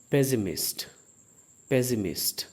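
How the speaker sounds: पेसिमिस्ट as "PE-si-mist", stress on the first syllable; pessimist said right. Shown as a demonstration. Teacher to students: पेसिमिस्ट, clearly. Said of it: "इसका pronunciation है".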